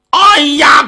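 high-pitched narrated yelp; cry of pain. A narrator's reading. Hooked warrior cries out in pain, a high yelp. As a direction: cry out high, as if suddenly hurt. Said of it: "疼得他大叫一声".

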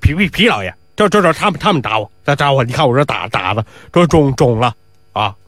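lightly voiced stammering servant with a swollen mouth; swollen-mouth whine. Wry-mouthed bearer whines to his master about his swollen mouth. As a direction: stutter out a complaint through puffed lips. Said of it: "这歪嘴子可得意了".

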